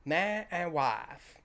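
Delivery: very slow, solemn vicar intoning; mock clergyman. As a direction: stretch every word like the wedding vicar. Echoing the clergyman's line.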